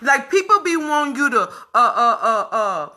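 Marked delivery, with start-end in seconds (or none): 1.4-2.9 choked up. Real, not acted. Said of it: "I'm getting emotional right now".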